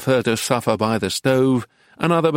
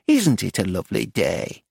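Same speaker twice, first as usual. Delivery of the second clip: put-on North Country accent; 4 semitones lower than usual. A narrator's reading. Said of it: "in an English North Country accent".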